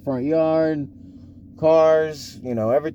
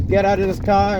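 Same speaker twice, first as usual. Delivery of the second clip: stronger New York accent, imitated; dad's New York accent; 3 semitones higher than usual. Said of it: "it gets stronger and stronger".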